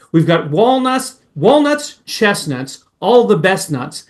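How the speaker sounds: lightly voiced song lyric, slow; half-sung quoting of a jive line; playful retold lyric, a bit slow; singer quote. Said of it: "My favorite part of that song is when he said".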